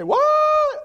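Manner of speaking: high, loud call of What; shouted What. Shown as a demonstration.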